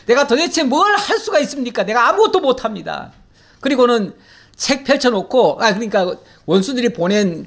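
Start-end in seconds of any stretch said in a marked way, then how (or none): 0.1-3.1 higher-pitched imitated plea of helplessness; Hezekiah. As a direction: mock-desperate prayer with laughter in it. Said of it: "히스기야의 기도처럼". (높은 목소리로 하소연하는 기도 흉내)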